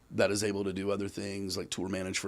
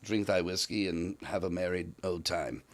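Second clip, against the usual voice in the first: put-on old English voice; 3 semitones lower, 4 dB quieter than usual. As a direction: intone it like an old prophet. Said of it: "I can do the old English stuff pretty good".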